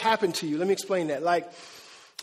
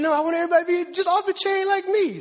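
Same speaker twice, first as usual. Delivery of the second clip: high, put-on voice of a smug pastor; mocking his own pride; 8 semitones higher, faster than usual. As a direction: parody yourself sounding full of yourself. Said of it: "When I start thinking".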